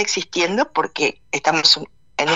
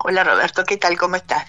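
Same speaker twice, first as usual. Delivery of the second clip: hoarse voice from the flu; rough, worn voice from weeks of illness; frog in throat. Real, not acted. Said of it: "Disculpa mi voz".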